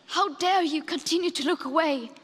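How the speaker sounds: indignant challenge; real, forceful reproach; angry rebuke. Real, not acted. Young activist confronting leaders who look away, angry. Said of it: "how sad and angry I am".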